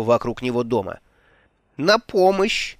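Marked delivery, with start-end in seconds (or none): 1.8-2.8 yelling for help. Acted. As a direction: cry out for rescue. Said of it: "завопил мэр".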